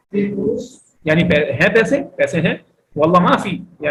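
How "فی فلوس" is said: high model. Shown as a demonstration. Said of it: "بولے".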